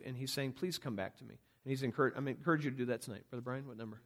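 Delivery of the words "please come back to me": hushed, much softer plea; a near-whispered please come back. Acted. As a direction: whisper a father's longing. Voicing God pleading.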